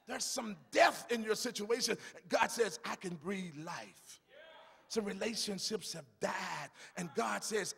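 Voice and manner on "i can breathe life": much softer, intimate; quiet reassurance; soft divine promise. Acted. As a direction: drop it to near-hush. God's words, quoted softly.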